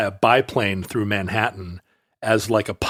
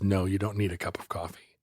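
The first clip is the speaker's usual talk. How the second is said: daughter refusing; 5 semitones lower, 10 dB quieter than usual. Retold or imitated. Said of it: "She says".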